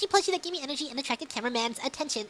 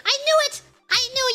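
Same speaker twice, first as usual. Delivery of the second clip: excited; 8 semitones higher, faster than usual. Real, not acted. Excited exclamation.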